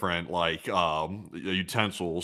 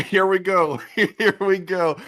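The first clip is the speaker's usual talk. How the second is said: dentist quote; 11 semitones higher, 7 dB louder, much slower than usual. Retold or imitated.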